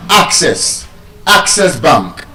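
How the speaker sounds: "access" as AC-cess; first-syllable stress. Shown as a demonstration. Teacher correcting the class, first-syllable stress on "access". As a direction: hit AC in each "access". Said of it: "is stressed on the first syllable".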